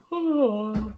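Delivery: real yawn. Real, not acted. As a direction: let out a yawn. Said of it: "Okay, yawn".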